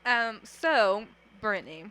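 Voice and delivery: talking while chewing gum; smacking gum between words. Real, not acted. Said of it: "smacking my gum".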